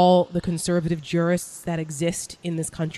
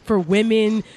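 sarcastic gushing, raised and emphatic; mock Trump booster; 2 semitones higher, 4 dB louder than usual. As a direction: parody a true believer reeling off glowing claims.

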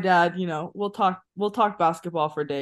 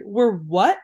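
retold disbelief; 3 semitones higher, 5 dB louder than usual. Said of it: "And I was like".

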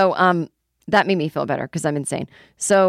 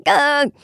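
high loud "ugh" groan; groan of dread; 8 semitones higher, 6 dB louder than usual. Retold or imitated. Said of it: "I was like".

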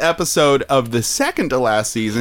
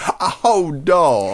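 put-on Southern accent; slower than usual. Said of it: "accidentally Southern".

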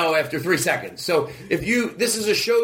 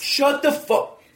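upset; 5 semitones higher, slower than usual. Real, not acted. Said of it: "I'm getting too upset".

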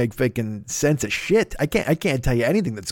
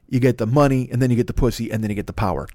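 bad Scarface; 2 semitones lower, faster than usual. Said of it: "that's a bad Scarface".

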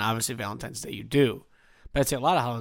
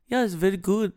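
put-on Nordic accent; 6 semitones higher than usual. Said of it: "like a Nordic accent".

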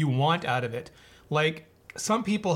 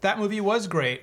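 high, eager yes; excited agreement; 5 semitones higher, slower than usual. Retold or imitated. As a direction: gush in agreement. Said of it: "I'm like".

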